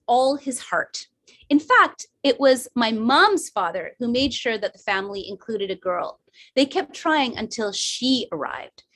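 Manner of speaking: measured, emphatic storytelling; story reading. A narrator's reading. Daughter reading her written tribute to mom, measured story narration. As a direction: read it aloud with deliberate, weighted phrasing.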